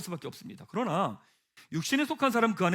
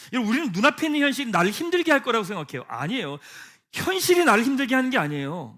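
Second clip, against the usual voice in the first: loud, driving sermon voice; preaching with rising force; fervent preaching; 6 semitones higher, 6 dB louder than usual. Acted. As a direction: press the point hard to the congregation.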